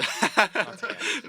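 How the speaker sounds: high, slow, laughing echo. Pretend. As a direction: sing it out through a laugh.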